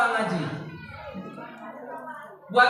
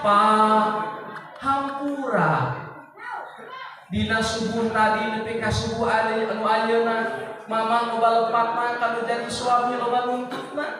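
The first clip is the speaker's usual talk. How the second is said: pleading wife; 4 semitones lower than usual. Acted. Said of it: "kata ibu begini bahasanya".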